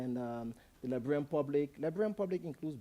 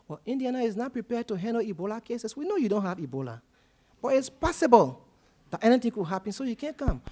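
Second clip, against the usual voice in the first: louder, insistent, rising high on the warning; firm official on the phone; 5 semitones higher, 7 dB louder than usual. Retold or imitated. Indiana official tells Chala he can't come, firmly and loudly. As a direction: lay down the rules, pushing harder as you go.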